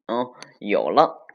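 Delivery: perky little moment of realization; light up as the idea comes, with a swoop; sudden idea. Acted. Hits on a naughty idea.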